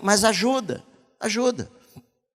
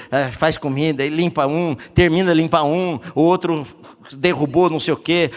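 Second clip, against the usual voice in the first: ordinary talk, nothing marked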